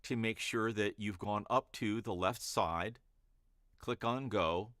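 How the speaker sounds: measured pauses between steps; paced instructions. Shown as a demonstration. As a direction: leave space for the listener to act. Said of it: "there's a kind of pace I use there".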